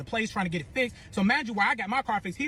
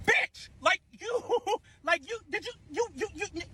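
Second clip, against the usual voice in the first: laughing; 8 semitones higher than usual. Real, not acted. Overcome retelling viral moment.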